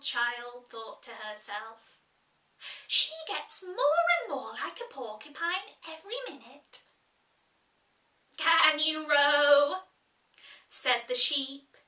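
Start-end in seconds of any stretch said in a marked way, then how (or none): 2.9-6.8 put-on light, higher girl's voice, wondering; a curious child musing to herself; Alice, puzzled. Alice wondering to herself, in a higher, lighter girl's voice. 8.4-9.8 put-on louder, slow old sheep; Sheep, gruff. Sheep asking Alice from her knitting, loud and slow.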